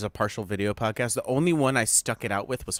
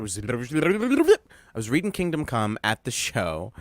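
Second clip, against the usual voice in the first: said twice as slow, every word drawn out; slow repeat; much slower than usual. Shown as a demonstration. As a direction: spell it out slowly for the listener. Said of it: "so I was reading Kingdom Come at the show".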